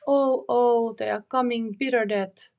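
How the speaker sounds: a panicked cry in the dark as the jailers come; frightened cry. Acted. Margareta hears chains and cries out in fear. Margareta terrified in her cell.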